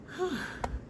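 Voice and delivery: long tired exhale; heavy sigh. Real, not acted. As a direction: blow out a weary breath. Back up the stairs.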